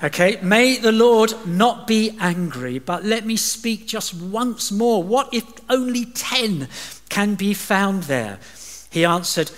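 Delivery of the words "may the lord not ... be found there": high, slow, wheedling plea; slow nervous wheedling Abraham; pushing his luck. Acted. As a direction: stretch it out, pushing your luck. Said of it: "it's called pushing your luck".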